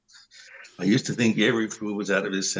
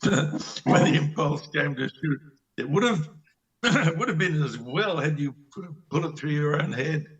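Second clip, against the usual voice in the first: mocking laughter; 3 semitones higher than usual. Astrov laughing at Vanya.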